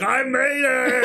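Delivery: high, laughing cry of triumph; triumphant arrival. Retold or imitated. Sweetums crashing into the theater, high triumphant laughing cry. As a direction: burst in, laughing, high and proud. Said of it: "the scene is like".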